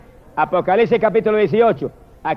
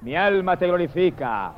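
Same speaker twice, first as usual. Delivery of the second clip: soft prayer; 4 semitones lower, 6 dB quieter than usual. Real, not acted. Murmured prayer aside.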